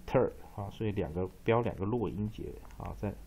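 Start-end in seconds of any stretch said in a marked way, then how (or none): 0.1-0.3 "ter" as a weak r-coloured syllable with t; pronunciation demo. Shown as a demonstration. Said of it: "一个念ter". ("ter" 读作带卷舌的弱音节)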